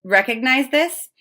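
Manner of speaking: talking around a fuzz in the mouth; something in mouth. Real, not acted. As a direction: speak with a bit of fluff on the tongue. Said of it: "I have a fuzzy in my mouth".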